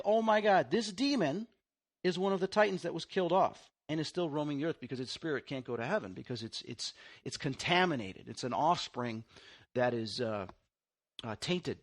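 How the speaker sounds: building from shock to a hushed finish; retold amazement. Realising what the demon is.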